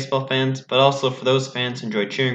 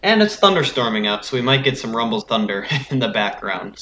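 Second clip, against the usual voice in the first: chewed-through mic crackle; fuzz distortion. Real, not acted. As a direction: voice through a broken microphone. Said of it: "if I sound all distorted on this podcast".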